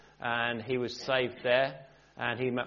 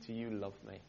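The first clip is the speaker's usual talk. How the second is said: the Lord's voice; 3 semitones lower, 13 dB quieter than usual. Retold or imitated. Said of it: "heard the voice of the Lord say".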